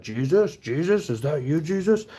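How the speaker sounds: rising high, wondering calls; dazed mock voice. Imitating the high girl mistaking him for Jesus, dazed and wondering. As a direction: play her as out of her head and awed.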